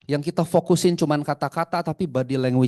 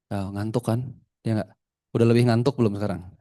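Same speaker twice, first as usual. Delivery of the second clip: low, toneless demo voice; flat, sleepy monotone; 4 semitones lower than usual. Shown as a demonstration. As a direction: lull the listeners with an even tone. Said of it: "gue ngomongnya begini". (datar bikin ngantuk)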